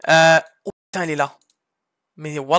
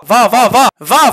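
laughing; 7 dB louder, slower than usual. Real, not acted. Laughs telling Sarah to go.

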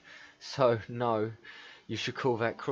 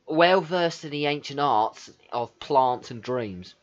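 put-on London accent, slightly raised; 2 semitones higher, 4 dB louder than usual. Player voices a courtier offering an introduction, London accent. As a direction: read it out in broad London. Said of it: "What the fuck kind of accent am I doing?".

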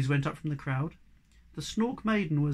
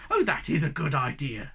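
happy; 3 dB louder than usual. Acted. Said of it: "said Moomin Puffer happily".

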